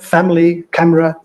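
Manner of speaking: family and camera each cut to two syllables; syncopated. Shown as a demonstration. Lecturer giving examples of dropped vowels, syncopated family, camera. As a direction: say family as FAM-lee and camera as CAM-ra. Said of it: "these are syncopated words".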